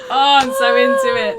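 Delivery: high, loud delighted cry; real thrilled outburst; excited squeal. Real, not acted. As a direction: gush with giddy glee. Laughing excitement after the bit.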